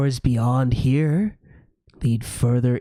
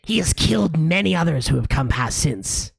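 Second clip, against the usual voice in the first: lightly raised gargoyle voice; 4 semitones higher than usual. Acted. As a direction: warn them like a smug gargoyle. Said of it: "says the gargoyle on the left".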